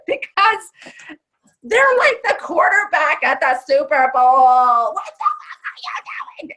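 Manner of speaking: full, high, drawn-out sideline yell; coach yelling. Shown as a demonstration. Coach to powerful client at the Super Bowl, yelling. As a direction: yell it like a coach at the big game. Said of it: "I have to yell at them".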